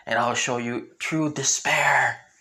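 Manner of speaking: slow, lightly voiced villain threat; threatening villain. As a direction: draw the threat out slowly, a touch menacing. Villain threatens his opponent.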